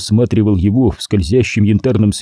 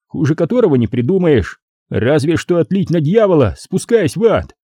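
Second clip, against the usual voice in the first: higher stern voice; lecturing gangster boss; 6 semitones higher than usual. A narrator's reading. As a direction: lay down the law. (назидательно, строго)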